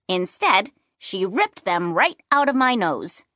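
usual speaking voice

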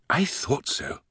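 high, pleased British lilt; lilting British satisfaction; sing-song British woman. A narrator's reading. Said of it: "a sing-song British voice".

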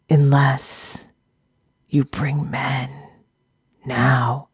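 quiet, slow raspy plea; weak pleading orc. A narrator's reading. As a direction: beg without pride.

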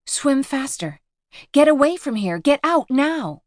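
high desperate scream. Acted. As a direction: scream them away, slowing at the end. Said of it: "she finds herself screaming".

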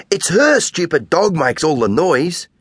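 put-on girl still angry, blaming the neighbour's dog; seething. A narrator's reading. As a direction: blame the neighbour through anger. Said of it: "still seething".

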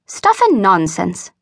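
slow, drawn-out contempt to herself; scornful musing. A narrator's reading. Old spinster alone by the fire, musing scornfully. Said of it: "mused Miss Terry scornfully".

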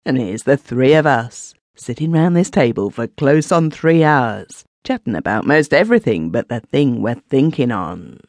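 forced cheerfulness. Acted. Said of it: "With an attempt at cheerfulness".

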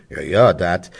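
lightly voiced Kölsch old-timer; old undertaker. Undertaker explains his anecdote, lightly voiced dialect old-timer. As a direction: gossip on in dialect as the old local. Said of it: "Und Franke fährt fort".

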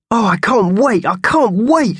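a tiny creature who can hardly wait; excited little mouse. A narrator's reading. Mickey Thompson the mouse thrilled about his first holiday.

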